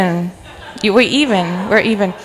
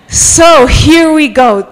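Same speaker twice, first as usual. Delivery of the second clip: rallying call; 5 semitones higher, 4 dB louder, slower than usual. Real, not acted. Preacher launching into her sermon.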